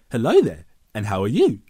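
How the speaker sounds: rising end on each phrase; uptalk. Shown as a demonstration. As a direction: lift the end of the line. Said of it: "the way my voice went up".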